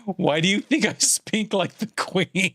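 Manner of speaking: English accent slipping into exaggerated Australian; bad Australian accent. Streamer mocking own English accent, sliding into Australian. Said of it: "starts shifting into Australian".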